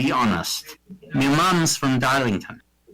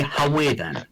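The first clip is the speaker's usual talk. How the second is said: put-on Geordie accent. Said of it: "they say".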